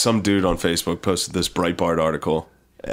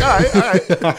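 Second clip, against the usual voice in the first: mock resignation; 10 semitones higher, 3 dB louder, slower than usual. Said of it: "It's like".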